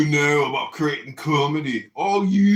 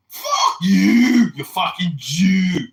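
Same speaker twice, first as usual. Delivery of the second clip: angry shout; 6 dB louder, much slower than usual. Real, not acted. Insult hurled in argument.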